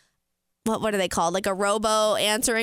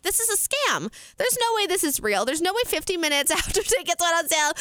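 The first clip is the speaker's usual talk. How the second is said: high, rattled retold suspicion; reenacted frantic disbelief; disbelieving; 5 semitones higher than usual. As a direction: insist in a raised pitch that it can't be true. Retells suspecting a scam.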